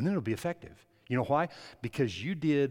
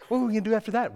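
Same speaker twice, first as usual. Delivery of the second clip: impatient church member; 9 semitones higher, 8 dB louder, much faster than usual. Retold or imitated.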